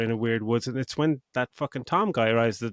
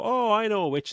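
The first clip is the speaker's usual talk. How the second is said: mock film character; 10 semitones higher than usual.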